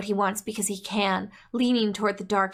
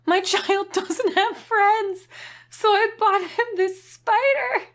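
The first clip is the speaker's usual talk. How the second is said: higher, slow, breaking into laughter; laughing while reading; 7 semitones higher, slower than usual. Acted. Reading a parent's spider review aloud, laughing through it. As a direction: read it slow and high, cracking up.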